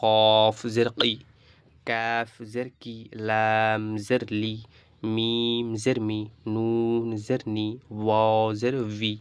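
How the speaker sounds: slow, drawn-out Arabic letter-by-letter spelling; spelling aloud. Shown as a demonstration. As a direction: spell out each letter, vowel, then syllable. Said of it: "এটা তো আমরা বানান করে পড়লাম".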